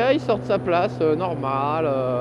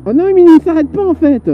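excited disbelief; 9 semitones higher, 8 dB louder than usual. Real, not acted. Disbelief at motorcyclist.

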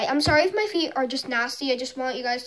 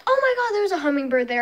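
excited gasp at a bird; sudden delighted surprise; surprised; 4 semitones higher, much faster than usual. Real, not acted. Spots hummingbird.

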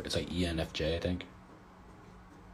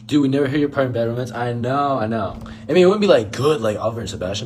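much higher and louder, fast and keyed up; louder rushed excited protest; 6 semitones higher, 12 dB louder than usual. Real, not acted. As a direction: gush it out with energy. Excited chat about singing.

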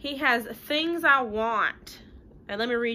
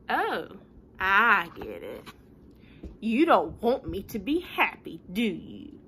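sulky pigeon; 3 semitones lower than usual. Acted. Pigeon sulking accusation.

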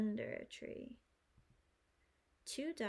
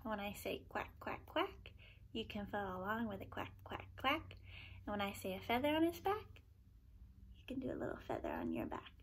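hushed instructions; 4 dB quieter than usual. Real, not acted. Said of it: "explaining the quack game".

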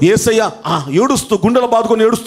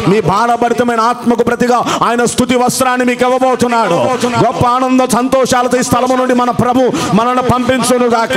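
rising proclamation. Acted. Proclaiming a blessing.

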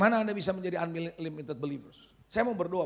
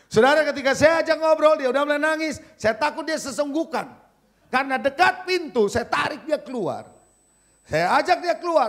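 higher, urgent testimony; impassioned preaching; 7 semitones higher, 7 dB louder than usual. Real, not acted. Preacher telling the congregation how he prayed for him, impassioned. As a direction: preach the story with rising intensity.

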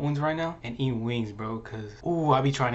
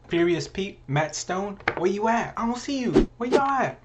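calling out; 6 semitones higher, 3 dB louder than usual. Acted. Calling out rival eaters.

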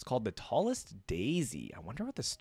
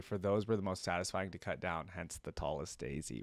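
measured storybook reading; story narration. A narrator's reading. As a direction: narrate a dark tale with care. Reads the story aloud.

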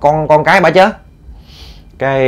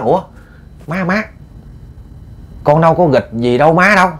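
higher-pitched puzzled protest; innocent denial; 5 semitones higher than usual. Acted. Daughter denying she bothered mother, innocent protest. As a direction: deny it, pitch raised in bewilderment.

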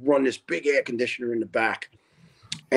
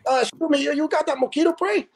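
high timid voice; imitating the late caller; 12 semitones higher, faster than usual. Night caller at the firehouse door, high meek voice. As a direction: ask sheepishly like a stranger at the door. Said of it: "and he goes".

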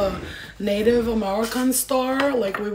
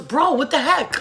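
loud, high mock-outraged kid; imitating daughter; 7 semitones higher, 6 dB louder, slower than usual. Daughter calling her mom bro, high exasperated impression. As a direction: pitch it up like an indignant daughter. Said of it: "she goes".

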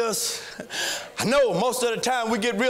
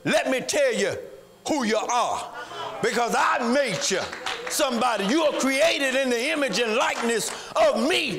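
voice of God. Acted. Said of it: "God say".

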